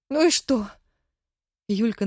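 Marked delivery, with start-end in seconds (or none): 0.1-0.7 high, loud, sobbing with relief; cling to him, overjoyed; tearful joy. Acted. Wife still overjoyed.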